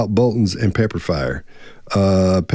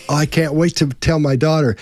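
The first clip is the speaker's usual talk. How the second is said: excited seatmate; 6 semitones higher than usual. Retold or imitated. Retelling thrilled seatmate.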